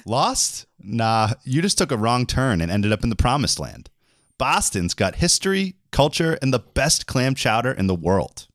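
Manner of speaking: hammed-up sketch read; scripted comic banter. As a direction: play up the hometown boast. Reads scripted Bostonian part.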